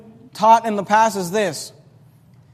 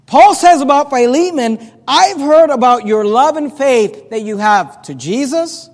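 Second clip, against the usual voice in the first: raised, insistent preacher's voice; emphatic preaching; 5 semitones higher, 5 dB louder than usual. Acted. Preacher paraphrases Paul's praise of Philemon's love and faith, emphatic preaching. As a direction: proclaim it to the congregation, higher in pitch.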